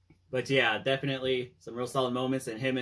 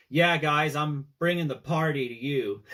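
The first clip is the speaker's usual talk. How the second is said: mock excited call; 5 semitones higher, 6 dB louder than usual. Quoting Stark's arrival line.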